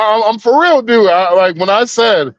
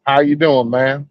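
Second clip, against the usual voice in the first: put-on Southern accent; 2 semitones lower than usual. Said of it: "I literally country up my accent".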